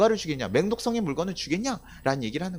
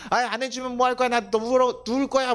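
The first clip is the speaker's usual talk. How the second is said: high-pitched stubborn whine; mock tantrum, pitched high; childish tantrum; 6 semitones higher than usual. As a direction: threaten like a sulky kid demanding it.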